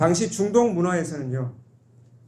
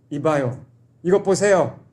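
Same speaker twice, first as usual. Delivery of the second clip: a louder, dismissive "이것 보세요"; disrespectful call; 4 dB louder, slower than usual. Retold or imitated. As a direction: brush the father off rudely. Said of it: "정말 아버지를 무시한 겁니다".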